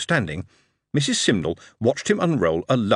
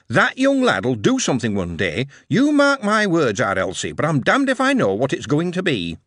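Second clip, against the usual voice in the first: Yorkshire mother remembering; 5 semitones higher than usual. Acted. Mother recounting granddad's last words.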